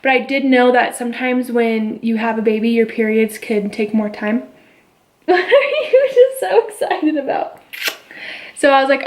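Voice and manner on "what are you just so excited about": sing-song high voice for an infant. Real, not acted. Mother talks to her baby.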